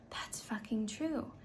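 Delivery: slow hushed swear; whispered emphasis. Real, not acted. Telling viewers the truth, slow whisper. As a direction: lean in and whisper it.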